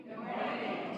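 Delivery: soft whispered good morning, barely voiced; whispered greeting. Real, not acted. Greets the congregation again.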